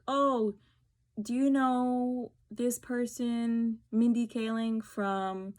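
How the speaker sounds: slow, drawn-out clueless question; clueless asker. Retold or imitated. Stranger asking if she knows Mindy Kaling, slow and clueless.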